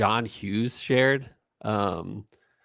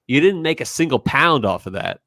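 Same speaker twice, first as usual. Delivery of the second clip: put-on louder, higher British-accented retort; fake British accent; 4 semitones higher, 5 dB louder than usual. Retelling one brother challenging the other, fake British accent. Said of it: "two brothers and they're fighting".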